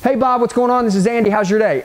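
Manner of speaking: breezy, run-together phone opener; casual buddy greeting without stops; quick rolling greeting. Shown as a demonstration. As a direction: roll straight through the hello. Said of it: "you roll with this quick".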